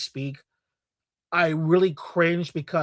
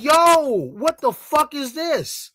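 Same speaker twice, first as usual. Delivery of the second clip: first take; 8 semitones higher, much slower than usual. Retold or imitated. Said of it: "Sorry, I gotta flip that".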